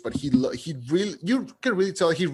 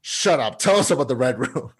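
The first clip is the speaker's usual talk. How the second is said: brusque mock interruption; imitated no-nonsense demand; straight to business; 4 dB louder than usual. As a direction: cut in, all business. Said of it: "straight to business".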